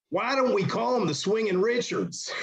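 put-on high, swooping voice; Michael Hayes impression. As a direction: sing it out from across the room. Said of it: "so Michael Hayes said".

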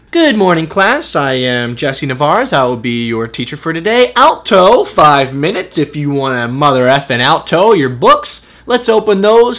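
hammed-up classroom voice; English teacher. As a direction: greet the class, then punch the odd word. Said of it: "You should be an English teacher".

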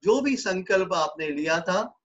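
unhurried English instructions with long pauses; guided meditation. Real, not acted. Yoga teacher bringing students out of yoga nidra, guided meditation.

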